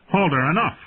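John stopping Halder from striking again; calling out. Acted. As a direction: cut in sharply. John calls out to stop.

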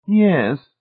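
high, decided yes; decided agreement. A narrator's reading. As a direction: agree firmly in a high lady's voice. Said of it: "she agreed finally, her decision made".

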